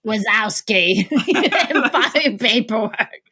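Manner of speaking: lightly voiced slug, drawing out the name. Comparing Mark's impression to a cartoon, in a light slug voice. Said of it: "who was like".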